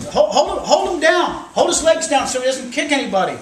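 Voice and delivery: loud, high frantic commands; urgent retold orders. Storyteller voices bystanders pinning a man down, urgent shouting. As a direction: call out like a panicked bystander.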